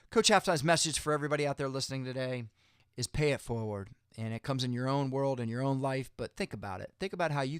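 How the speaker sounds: halftime pep speech. Real, not acted. Rousing closing message to viewers.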